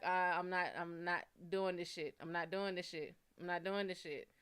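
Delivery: retold refusal, dropped low and quiet. Woman recalling giving up on a dating match, low quiet refusal. Acting out her repeated refusal to continue.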